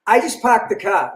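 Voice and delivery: plain Boston accent on "park the car"; simple Boston accent. Shown as a demonstration. Comedian contrasting his own way with New York's, simple Boston accent. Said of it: "mine is very simple".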